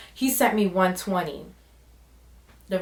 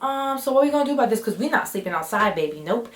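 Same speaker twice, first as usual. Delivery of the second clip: sassy; 3 semitones higher than usual. Retold or imitated. Confronting guy about where to sleep.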